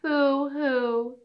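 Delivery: high pretend boo-hoo; a little hammed-up sob; mock crying. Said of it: "said the little mouse".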